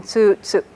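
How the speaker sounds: first tsu held long, second short. Shown as a demonstration. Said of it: "and a long U in".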